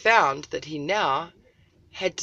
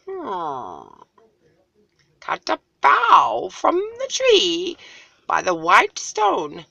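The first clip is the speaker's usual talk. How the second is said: much higher, louder, slow stern eagle; 10 semitones higher, 10 dB louder, slower than usual. Acted. Eagle sternly instructs Little Cloud, high and booming. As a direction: command slowly like a stern eagle.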